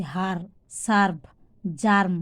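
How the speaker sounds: হার, সার্ভ, জার্ম with an "aa" vowel. Shown as a demonstration. Teacher showing E pronounced as "aa" in হার, সার্ভ, জার্ম. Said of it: "ইর উচ্চারণ আ হচ্ছে".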